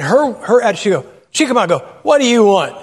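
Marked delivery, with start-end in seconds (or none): 2.0-2.8 a mock surly waitress snapping at customers; rude waitress. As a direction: imitate the waitress spoiling for a fight. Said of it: "you'd think she's gonna pick a fight".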